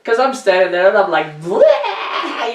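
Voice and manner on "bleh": high, laughing fake sob; mock bawling wail. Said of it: "I'm bawling my eyes out".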